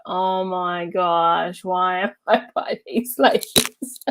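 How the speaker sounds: mock-exasperated drawn-out groan breaking into a laugh; exasperated seatmate. Annoyed lady stuck by two chatty friends, mock exasperation. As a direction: imitate a fed-up neighbour, amused. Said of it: "she was like".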